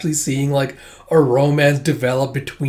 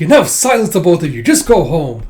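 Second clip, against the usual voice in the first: louder, firm teacher command; stern scolding; 3 semitones higher, 6 dB louder than usual. Retold or imitated. Teacher silencing two kids, loud and firm. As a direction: cut them off sharply. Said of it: "It's like".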